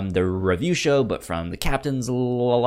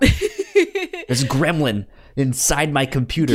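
slow, laughing through the words; 6 semitones higher, 4 dB louder than usual. Real, not acted. Co-host jokes about tech trouble, laughing. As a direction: chuckle it out, amused at the mess.

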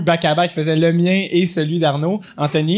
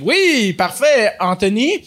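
host voice; 5 semitones higher, much slower than usual. Retold or imitated. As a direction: answer like an upbeat game host.

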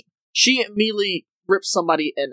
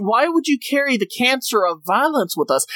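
higher, imitated moral reproach; mock indignation; 5 semitones higher than usual. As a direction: scold them like an offended pacifist, lightly parodied. Retells crew's outraged objection.

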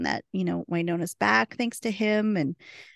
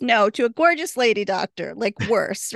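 blurted reply; 3 semitones higher, 5 dB louder than usual. Retold or imitated. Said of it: "she says".

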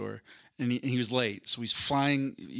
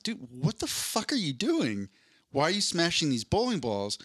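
acted disbelief; 5 semitones higher than usual. Driver confronts man in joke.

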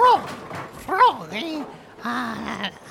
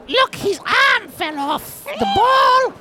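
shout; 5 semitones higher, slower than usual. Acted. Shouting at bowling mishap.

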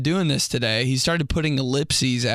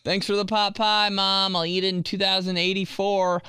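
sarcastic thanks; 8 semitones higher than usual. Pretend. Mock thanks to mom.

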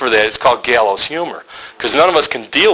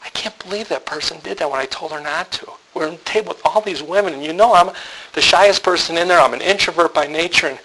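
higher-pitched, mildly tearful complaint; imitating upset wife; 4 semitones higher than usual. Wife admitting to her husband she's ticked, mock upset. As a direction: act out her hurt building up. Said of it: "Now she's crying".

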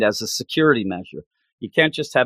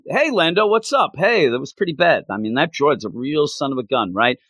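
put-on cheerful old pal catching up; chatty Lobot. Lobot voiced chatting to Lando.

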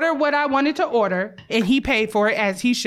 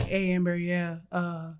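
low, softer imitation of a guy; deeper male voice; 6 semitones lower, 6 dB quieter than usual. Homeboy calling to rescue her from a date, imitated in a deeper voice. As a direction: drop down into your homeboy's voice. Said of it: "a deeper voice".

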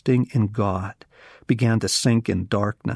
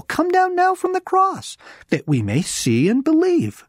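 much higher, louder scornful cry; jeering taunt; 4 dB louder than usual. Acted. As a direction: jeer up at the cross. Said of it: "mocked him among themselves".

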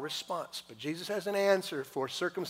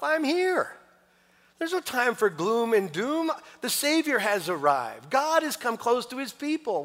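higher, much louder, jubilant proclamation; joyful Jesus voice; 9 semitones higher, 10 dB louder than usual. Acted. Jesus telling mourners to stop fasting, loud and jubilant. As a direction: announce the Savior's arrival with exuberant joy. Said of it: "Jesus saying about his presence".

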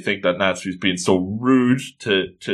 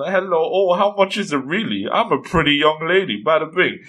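higher-pitched playful flirting; flirty charm; 4 semitones higher than usual. Acted. Lucy flirting to haggle down the price, playfully charming. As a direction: lay on the mock charm. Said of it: "maybe I can flash the charm".

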